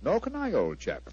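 ordinary talk

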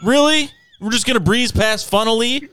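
high, loud disbelief; in disbelief at the word; incredulous. Real, not acted. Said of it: "Funnily? Really?".

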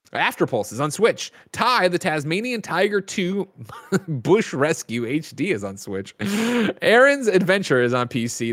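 rhythmic list, each title lifted then dropping off; games-news roll call; release-list read. Real, not acted. Host reading out new game releases, announcer list read.

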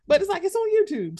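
worked-up rant. Real, not acted. Incredulous rant about streaming.

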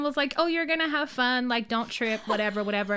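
high, excited encouragement; bright coaching friend cheering her on; hyped-up pep talk. Retold or imitated. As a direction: pump her up like a hype man. Friend hyping her up before date.

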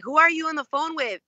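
tipsy friend prying, voiced up high; drunk friend. Drunk friend suspicious about call.

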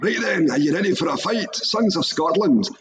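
hammed-up Scottish war speech; Braveheart impression. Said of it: "do the whole Braveheart".

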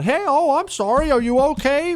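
high, sweetly sympathetic; mock caring voice. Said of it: "the response was not".

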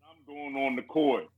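low, mock-earnest pep talk; rallying speech. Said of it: "this rallying speech".

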